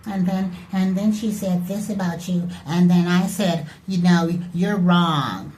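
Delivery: put-on high, whiny gossiping girl voice; mock gossip. Mocking a teacher's pet who retells gossip, high and whiny. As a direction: rattle it off like a petty schoolgirl telling tales. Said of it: "she's like".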